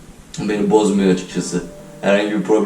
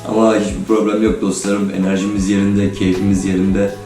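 sick, robot-like voice from a cold; hoarse, flat voice after being ill. Real, not acted. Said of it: "sesim biraz robot gibi gelebilir". (robot gibi hasta ses)

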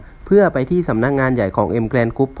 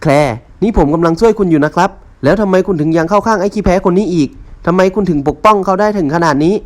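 indignant protest; 6 semitones higher, 5 dB louder than usual. Acted. Rival protests angrily.

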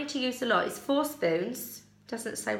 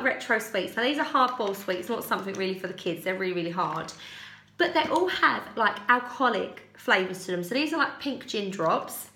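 ordinary talk

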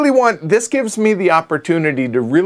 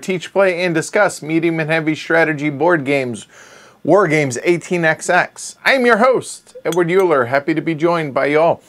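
slightly slurred from a burned tongue. Real, not acted. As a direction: talk around a scalded tongue. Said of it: "And I seem to be slurring".

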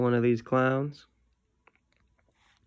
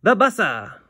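grandma yelling; 7 semitones higher, 5 dB louder than usual. Acted. Grandma calling the boy down again. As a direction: stretch it out like grandma hollering. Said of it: "And then she yells again".

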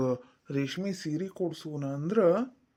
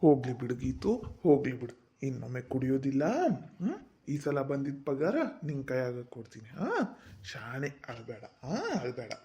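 coaxing apology; 4 semitones lower than usual. Acted. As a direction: sheepishly soothe your wife. Husband soothes crying wife.

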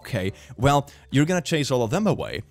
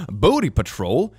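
gasp, then a shocked question; gasping surprise; 4 dB louder than usual. Real, not acted. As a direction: say it as if scandalized. Gasped repeat of meme.

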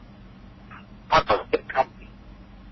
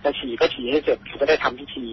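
stern father's warning; 4 dB quieter than usual. Retold or imitated. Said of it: "แกก็เลยบอกว่า".

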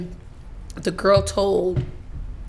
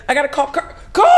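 raised, hammed-up panicky cry; mock panic; 5 semitones higher, 4 dB louder, faster than usual. Shaking, needing to warn Kirk, panicking. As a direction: act out freaking out, voice climbing. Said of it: "So I'm shaking and I was like".

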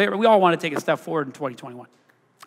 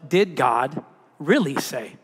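serpent's question; 3 semitones lower than usual. Retold or imitated. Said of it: "the very first thing he said".

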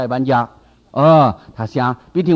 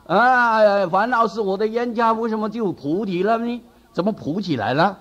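mock protest; 5 semitones higher than usual. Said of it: "他就大喊冤枉啊".

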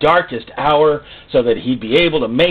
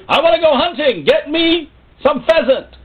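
mocking whiny voice; 5 dB louder than usual. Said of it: "And the dog goes".

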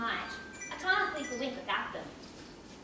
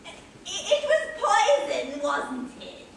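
giggly insistence; 3 semitones higher than usual. Acted. Old lady insisting on poison.

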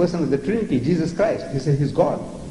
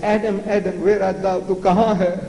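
calling out higher for the hidden Adam; God calling out; 5 semitones higher than usual. Retold or imitated. God searching the garden for Adam, calling out higher. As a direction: call out like searching for someone. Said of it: "So he said".

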